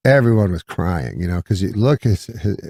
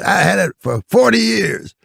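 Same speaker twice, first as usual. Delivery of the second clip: imitated indignant character voice; Red Fox; 12 semitones higher than usual. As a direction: protest in a much higher put-on voice. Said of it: "He said".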